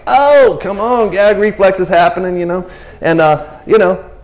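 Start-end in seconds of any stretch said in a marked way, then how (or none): 0.1-2.4 mock disgust. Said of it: "I'm just like".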